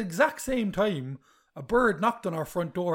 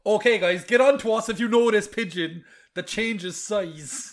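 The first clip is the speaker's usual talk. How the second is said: laughing; 3 semitones higher, 5 dB louder, slower than usual. Real, not acted. Appeal to listeners, laughing.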